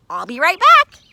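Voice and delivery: loud, high eager call; eager promise. Acted. Carl calling to the field mouse as he leaves, loud. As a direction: call it back over your shoulder.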